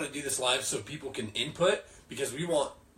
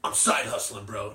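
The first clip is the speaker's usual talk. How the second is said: douchey bro; 5 semitones lower than usual. Retold or imitated. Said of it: "it's kind of a douchey".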